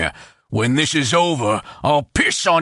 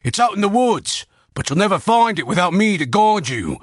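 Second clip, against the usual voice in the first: much higher, urgent desperate voice; panicked pleading; 6 semitones higher than usual. A narrator's reading. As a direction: sell the hidden treasure to save your life. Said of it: "words brimming with panic".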